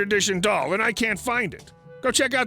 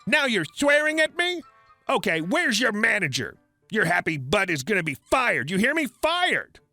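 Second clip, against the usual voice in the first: shrieking entitled mother; 4 semitones higher than usual. Acted. Entitled mother demanding the manager, shrieking.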